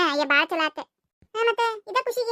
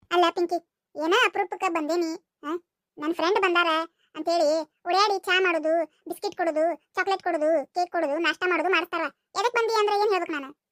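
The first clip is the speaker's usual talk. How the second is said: put-on boy with a cold. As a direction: play Surya with a changed voice from a cold. Surya's lower voice continues.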